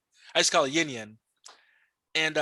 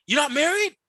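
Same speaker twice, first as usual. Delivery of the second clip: broken English; 10 semitones higher, 3 dB louder than usual. Retold or imitated. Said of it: "They be like".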